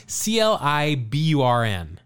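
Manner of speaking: C L I B U R N read letter by letter; spelling it out. Shown as a demonstration. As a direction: spell C L I B U R N one letter at a time.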